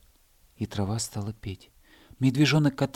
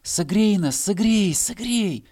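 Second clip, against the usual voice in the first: higher, louder pleading calls; crying out; 10 semitones higher, 6 dB louder, slower than usual. Acted. Grass blades crying to the hare, loud pleading. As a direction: grass clamouring for warmth. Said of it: "кричали травинки".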